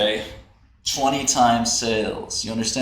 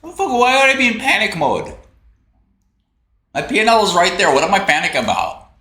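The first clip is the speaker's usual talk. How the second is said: fast, higher, pushed indignation at being called panicked; indignant outburst; 5 semitones higher, faster than usual. Real, not acted. Streamer snaps at chat claiming he panics, indignant and faster. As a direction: snap back at chat, higher.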